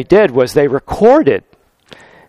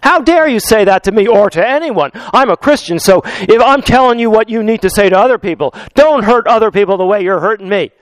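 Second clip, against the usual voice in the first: accusing; 3 semitones higher than usual. Shown as a demonstration. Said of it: "rather than".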